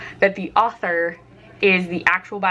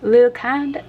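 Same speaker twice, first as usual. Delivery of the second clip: put-on Georgia accent; 4 semitones higher, 4 dB louder than usual. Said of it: "had to do a Georgian ac".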